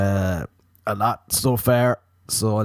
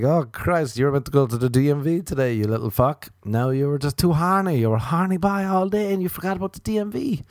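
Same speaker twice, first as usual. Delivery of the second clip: scolding chemicals; 6 semitones higher than usual. Pretend. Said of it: "They're like".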